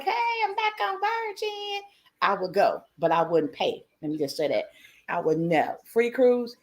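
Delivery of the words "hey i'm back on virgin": much higher and softer, a little embarrassed; sheepish mock greeting. Host pretending to reappear on Virgin after a free cruise, sheepish high voice. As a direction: sneak back in with a grin. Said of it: "they're like".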